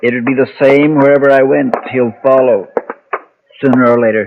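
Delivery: hunted man protesting to his protector; anguished protest. Acted. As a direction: cry out that there's no escape.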